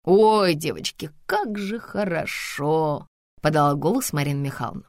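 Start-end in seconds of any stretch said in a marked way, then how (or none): 0.0-3.1 long, drawn-out contented sigh of words; blissful contentment. Acted. Grandmother enjoying wine with the girls, blissfully. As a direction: savour it slowly. Relaxed grandmother savouring the evening.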